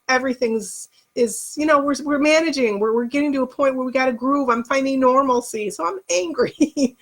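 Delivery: real tears creeping into the voice; angry, close to crying; tearful and angry. Real, not acted. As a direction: push on through tears, pitch climbing. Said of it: "I didn't mean to cry".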